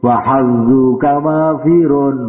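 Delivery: slow, measured Arabic verse recitation; slow sung-out Arabic poetry; recited poem. Acted. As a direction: chant the verses slowly and solemnly. Recited Arabic poem of Imam Syafi'i.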